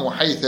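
"وحيث" ending in a short a, wa-haytha; fatha ending. Shown as a demonstration. Teacher reads the rule to students, fatha ending on "وحيث". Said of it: "بالفتح".

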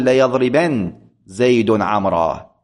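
ليضربن زيد عمرا with a short unvowelled nun, slow and careful; light silent nun. Shown as a demonstration. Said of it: "بسكون النون".

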